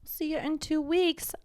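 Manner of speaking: whispering. Pretend. Echoing whispered sign-off.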